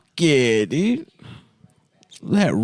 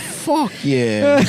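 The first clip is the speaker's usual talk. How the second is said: stoked bro; 10 semitones higher than usual. Retold or imitated. Imitating the bro, high.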